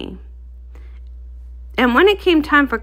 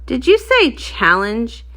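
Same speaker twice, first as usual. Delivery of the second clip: eager cheer; much slower than usual. Acted. Rockhoof excited by food challenge.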